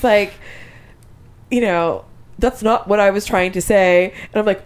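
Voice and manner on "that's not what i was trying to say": lightly imitated robot-like speech; even, slightly mechanical delivery of a quote; robotic. Husband talking to wife in a fight, lightly robotic. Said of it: "he sort of sounds like a robot".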